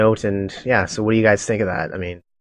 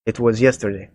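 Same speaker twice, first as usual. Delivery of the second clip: lightly voiced Russian cultist; Russian accent. Cultist confirming he saw the young woman, Russian accent. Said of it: "a Russian, little bit of a Russian accent".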